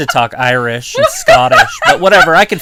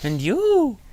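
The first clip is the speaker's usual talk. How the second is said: hammed-up promo voice repeating and you; mocking wrestler promo; 13 semitones higher, 4 dB quieter, much slower than usual. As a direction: imitate the wrestler's big rising delivery.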